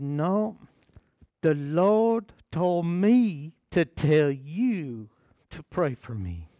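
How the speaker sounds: drawn-out, a lightly voiced elderly woman; slow old church mother. Preacher imitating the old woman's slow, certain request. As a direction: let the words stretch slowly, like an old saint. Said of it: "I can't do her voice justice".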